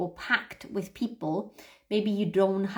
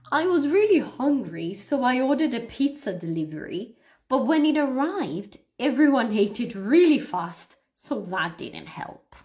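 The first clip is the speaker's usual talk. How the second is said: smoother, more natural read; more naturally. Shown as a demonstration. Teacher rereading the sentence more naturally for repeating. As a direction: read it the way you'd just say it. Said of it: "a bit more naturally".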